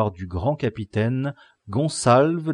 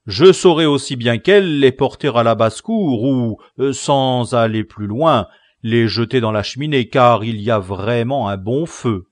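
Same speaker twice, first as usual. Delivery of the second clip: a touch louder, offhand barber; lightly voiced barber; 4 semitones higher, 11 dB louder than usual. A narrator's reading. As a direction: offer to burn the books, mildly eager. Barber speaks.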